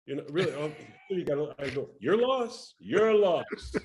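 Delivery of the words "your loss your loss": high-pitched, indignant parting shot; defiant retort. Retold or imitated. Kid to receptionist calling security, defiant retort. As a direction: toss it back high, twice over.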